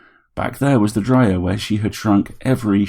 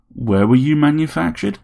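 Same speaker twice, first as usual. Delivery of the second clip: a grumpy widower caught off guard; startled old man; 8 semitones higher, 3 dB louder than usual. A narrator's reading. Harry questioning the robot, incredulous.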